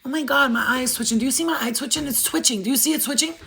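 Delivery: acted mild panic; mock scared reaction. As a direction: imitate someone getting worked up. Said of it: "like you're scared".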